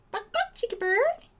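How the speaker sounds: high squeaky line for the bird to copy; bird-teaching voice. Shown as a demonstration. Teaching her cockatiel a phrase in a squeaky high voice. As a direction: say it like a parrot would. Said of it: "Say it".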